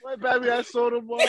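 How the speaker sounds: put-on country accent. Friend mimicking a Southern hometown accent while laughing. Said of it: "country accent talk".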